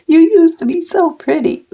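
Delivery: mimicking him with bitter irony; bitter mock repeat. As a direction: throw his words back, half laughing. Repeats the hurtful quote after laughing.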